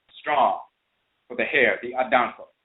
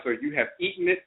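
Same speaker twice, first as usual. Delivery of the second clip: surprised hare; 5 dB quieter than usual. Acted. Hare learns meat is gone.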